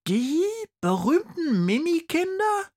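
thrilled to recognise them; amazed polar bear. Acted. Polar bear pupil to the teacher, amazed. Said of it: "fragt die Eisbärin".

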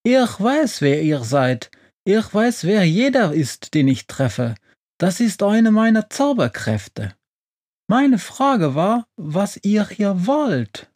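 high-pitched, bossy witch voice; unfriendly witch. A narrator's reading. Witch interrupting Befana's introduction, unfriendly and high-voiced. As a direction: cut them off in a high, haughty voice. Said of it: "doch die Hexe unterbricht sie unfreundlich".

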